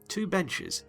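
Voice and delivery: ordinary delivery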